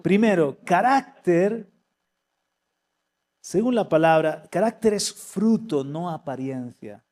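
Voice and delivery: loud, emphatic sermon delivery; preacher listing the marks of mature character; preaching. Acted. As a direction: proclaim each point to the congregation. Preacher lays out his points.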